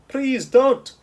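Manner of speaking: high, loud pleading giant. A narrator's reading. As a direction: beg her to stop, hurting.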